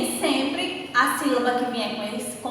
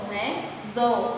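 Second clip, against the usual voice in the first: ordinary talk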